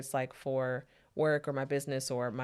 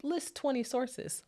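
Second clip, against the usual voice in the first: higher, slow recital of the demand; quoted assignment instruction; 9 semitones higher, slower than usual. Retold or imitated. Professors setting a paper's requirements, slow mock instruction. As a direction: read out the requirement slowly, pitched up. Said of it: "where they're like".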